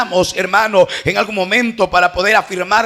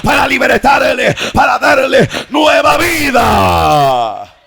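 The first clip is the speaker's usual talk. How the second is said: full-force preaching; 2 semitones higher than usual. Real, not acted. Preacher on the healing serpent and cross, fervently building to a shout. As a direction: drive each phrase harder, then stretch the last cry.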